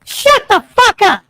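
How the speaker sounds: slow, deliberate angry put-down; angry slow retort. Acted. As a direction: spit it out slowly in anger. Acted quarrel with caller.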